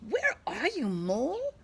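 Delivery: high, loud searching call. A narrator's reading. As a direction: call out looking for a friend. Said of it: "calls out Skunk".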